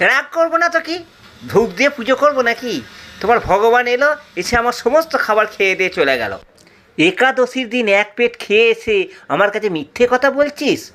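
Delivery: high indignant retort. Acted. Disciple scolding the sage, high and indignant. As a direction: snap back at the sage.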